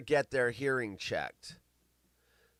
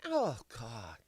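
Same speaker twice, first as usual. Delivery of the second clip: usual speaking voice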